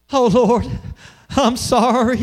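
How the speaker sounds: a hint of a pleading prayer; mock churchy apology. Pastor mimics adults apologizing to God, lightly voiced. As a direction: toss off a quick sorry to God. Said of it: "What do we say?".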